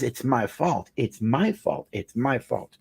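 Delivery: soft, broken repeat of a crying woman; mild hint of a sobbing client; quiet retold sobbing. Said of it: "she starts crying heavy".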